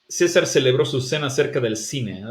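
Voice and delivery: César celebró with every C as S; plain S on each C, Latin style; Latin American Spanish. Shown as a demonstration. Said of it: "That's how Latin American Spanish".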